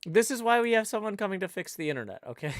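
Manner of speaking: loud, high-pitched exasperated defence; exasperated protest. Real, not acted. Teased about dropping out again.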